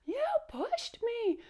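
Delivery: high, loud, drawn-out mock wail; crying and pouting. Teacher voicing Powder after being pushed in line, high crying whine. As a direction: fall apart in a slow, high-pitched whine. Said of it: "crying and pouting".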